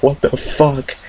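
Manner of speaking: high, disbelieving what the fuck; mock bewildered reaction; baffled. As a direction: sound totally thrown. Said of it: "I'm like".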